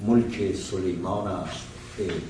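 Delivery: brisk, measured Persian verse reading; intoned reading of classical verse; poem recitation. Acted. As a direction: recite the verse steadily, couplet by couplet. Recites Persian verse before the talk.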